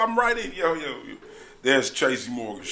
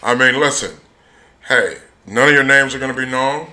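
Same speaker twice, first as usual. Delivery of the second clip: lightly voiced smooth recruiter; 8 dB louder than usual. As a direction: coax them into the scheme. Voices a recruiter pitching scheme.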